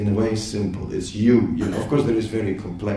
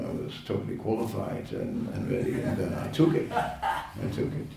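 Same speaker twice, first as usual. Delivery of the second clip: mock self-satisfied; 5 dB quieter than usual. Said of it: "You see how the language can mislead".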